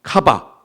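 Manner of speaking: 카바 pronounced carefully, ka then ba; Hebrew word spoken for the congregation to repeat. Shown as a demonstration. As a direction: say 카바 slowly and distinctly so people can repeat it. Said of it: "자, 따라해 보세요".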